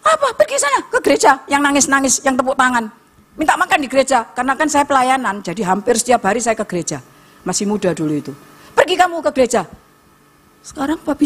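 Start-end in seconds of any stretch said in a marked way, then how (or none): 0.1-4.3 high-pitched scornful jeer, retold; raised-pitch taunting dismissal; mocking father. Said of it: "Dulu ngilokno saya". 8.8-9.6 higher, scornful send-off, retold; raised-pitch mock dismissal; mocking father. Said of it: "Dulu ngilokno saya".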